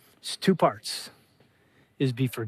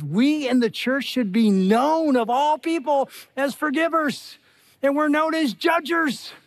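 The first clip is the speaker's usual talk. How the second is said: higher, impassioned preacher's push; preaching at full force; 6 semitones higher than usual. Acted. Pastor urging his church to forgive, impassioned preaching. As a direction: lift the congregation, driving the point home.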